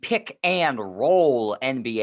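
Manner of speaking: hyped radio intro voice; podcast host intro. Shown as a demonstration. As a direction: draw out the welcome like a show opener. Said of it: "put the emphasis on roll".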